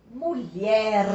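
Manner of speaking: "mulher" drawn out on its last syllable; slow teacher's demo of "mulher", last syllable stressed; stress on final syllable. Shown as a demonstration. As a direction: stretch the end of "mulher" to show its strong syllable. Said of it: "A sílaba lier é mais forte".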